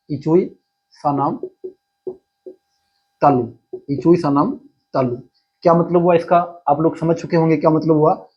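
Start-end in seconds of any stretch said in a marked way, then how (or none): 0.1-3.5 slow, drawn-out chant of the rule; slow recital. Shown as a demonstration. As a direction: say इचुई सानाम slowly, stressing इचुई. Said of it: "कौन सा सूत्र है?".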